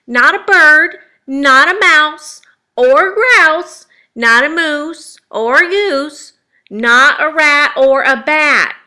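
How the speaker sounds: very loud, high, drawn-out scolding; emphatic mother's lecture; stern lecture. A narrator's reading. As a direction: hammer each item home slowly and loudly. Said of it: "The lecture went on and on".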